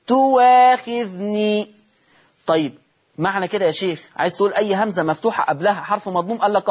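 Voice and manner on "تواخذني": very slow تواخذني, gliding on w without a glottal catch; hamza turned to waw. Shown as a demonstration. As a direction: stretch تواخذني as tu-waa-khidh-nii, louder on the waa. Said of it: "الإبدال واوا مفتوحة".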